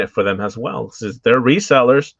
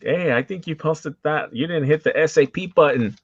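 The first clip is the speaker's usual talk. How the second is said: higher, slowed mock-viewer complaint; lightly voiced puzzled follower pointing out the mistake; imitating viewers; 5 semitones higher than usual. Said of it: "A lot of people are like".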